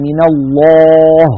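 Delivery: الله with a wrongly dark final ه, mouth left open; wrong heavy ha. Shown as a demonstration. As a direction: show the mistaken heavy ه in الله. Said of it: "وتركنا الفم مفتوحا ونطقنا الهاء فتخرج الهاء مفخمة". (هاء مفخمة خطأ)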